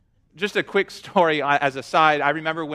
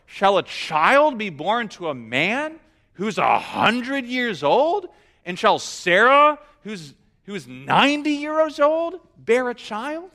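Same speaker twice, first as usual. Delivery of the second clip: mildly incredulous questioning; incredulous Abraham. Retold or imitated. Abraham doubting God's promise in his heart, mildly incredulous. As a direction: lift the questions in disbelief. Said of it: "He's literally laughing".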